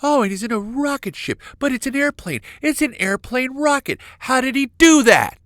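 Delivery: high-pitched mock astonishment, building to a yell; amazed onlooker. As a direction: gawk upward in excited disbelief. Voices amazed onlookers at Bezos.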